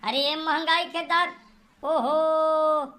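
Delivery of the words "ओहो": a mock holy man threatening a curse; baba threatening curse. Baba warns the family he will curse them, hammed-up menace.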